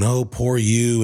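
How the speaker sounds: slow, drawn-out mock pity. Husband mocking people who pity you. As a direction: sneer it like fake sympathy. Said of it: "patronize you".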